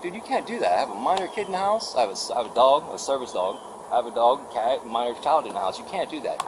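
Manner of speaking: retold protest. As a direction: plead your case, exasperated. Retold protest over power cut.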